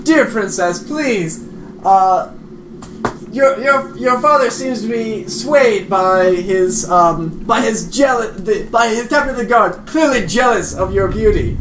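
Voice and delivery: lightly acted flattering appeal; courtly entreaty. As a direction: plead your case like a courtier. Player voices Brandis entreating the princess.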